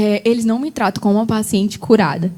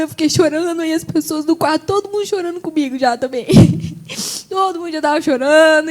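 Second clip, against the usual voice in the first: higher voice, close to crying; real tearful telling; 4 semitones higher than usual. Real, not acted. Patient recalling everyone crying with her, really tearful. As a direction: tell it through welling tears. Teller cries while recalling the ward.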